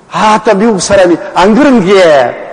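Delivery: light take on the American's Gyeongsang dialect; Gyeongsang accent. Retold or imitated. Preacher lightly mimicking the American's Gyeongsang dialect. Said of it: "경상도 사투리를 얼마나 하는지".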